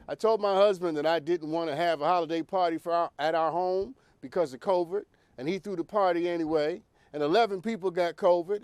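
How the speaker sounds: reading the letter in a light Southern accent. Shown as a demonstration. Host reading a viewer's DM aloud, lightly Southern-voiced. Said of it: "I have a southern voice when I read that".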